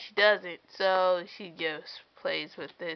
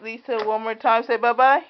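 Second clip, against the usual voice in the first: high, loud sing-song coaxing; 5 semitones higher, 12 dB louder than usual. Real, not acted. Mother coaxing her baby daughter, high sing-song baby talk.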